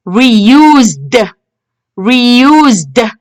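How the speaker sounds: "reused" ending in a released d; teacher's model "reused", final d set apart; final d sound. Shown as a demonstration. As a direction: say "reused" carefully with ed as an audible d. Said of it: "We can hear the d".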